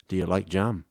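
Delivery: low, soft mock Scottish; Scottish accent. Host teasing as the Scottish listener, mock Scottish accent. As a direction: put on Scottish, low and quiet. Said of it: "Is that a, a Scottish accent?".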